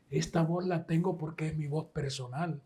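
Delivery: Celia's advice. Retold or imitated. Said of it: "la señora me dijo".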